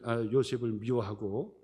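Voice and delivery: normal talking voice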